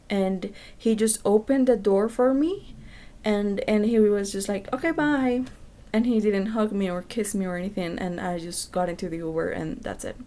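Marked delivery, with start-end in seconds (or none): 4.7-5.4 imitated dismissive goodbye. Imitates his curt dismissive goodbye.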